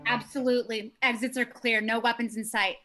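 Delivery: high, loud eager radio report; over a walkie-talkie. Acted. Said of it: "talk over walkies".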